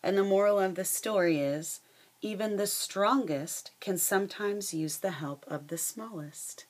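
lively read-aloud storytelling voice; reading a picture book to the class; story narration. A narrator's reading. Teacher reading a fable to her students, lively storytelling.

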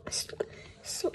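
loud stammered call to stop; shout. A narrator's reading. Grandpa shouts at Clown to stop, loud. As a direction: yell it out to the clown. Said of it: "shouts Grandpa".

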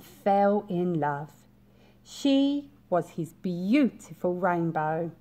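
storybook narration. A narrator's reading. Reads picture book aloud.

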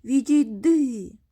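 loud, slow, gruff yell; rude shout. Acted. Boy rudely shouting at his playmate to go away. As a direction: bark him away rudely. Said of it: "грубо кричить у відповідь".

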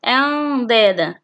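slow أندادا with held nasal noon; ikhfa demonstration. Shown as a demonstration. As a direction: hum the noon before the د of أندادا. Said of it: "هو حرف الدال". (إخفاء النون بغنّة في أندادا)

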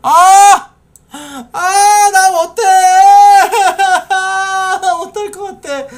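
high, loud shriek of disgust; scream, then laugh it off; panicked screaming. Real, not acted. Freaks out at cutting neck.

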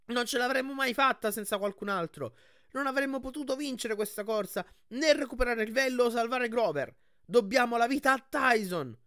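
high, loud proclaiming; loud speech. Acted. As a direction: proclaim it so all can hear. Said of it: "conclusi forte".

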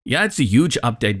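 mildly cynical, unimpressed agreement; dry, understated sarcastic "yeah"; a little sarcasm. Real, not acted. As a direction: concede it with a touch of sarcasm. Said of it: "a little bit of sarcasm in my voice".

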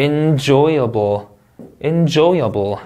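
"enjoyable" slow, with a strong JOY; stress demo. Shown as a demonstration. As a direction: punch the second syllable of "enjoyable". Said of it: "강세주에서 한번 단어 읽어볼게요".

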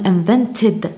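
"invented" slowly with a clear "ted" at the end; full -ed syllable. Shown as a demonstration. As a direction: pronounce the E in "invented": in-ven-ted. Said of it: "لا نحذف ال إي هنا". (نطق "invented" بإظهار ed كاملة)

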